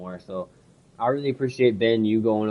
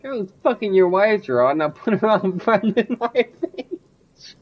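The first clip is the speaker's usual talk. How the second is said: much higher, louder taunting put-on voice; mocking caller voice; 9 semitones higher, 4 dB louder, slower than usual. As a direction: taunt the husband in a silly voice. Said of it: "I'm like".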